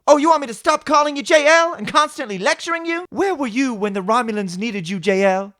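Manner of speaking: high, loud mocking complaint; Raffi. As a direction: nag with incredulous questioning. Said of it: "Will Raffi once again complain about everything".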